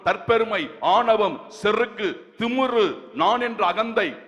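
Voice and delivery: emphatic sermon cadence, item by item; preaching. Acted. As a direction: preach it with solemn, measured conviction. Preaches to congregation.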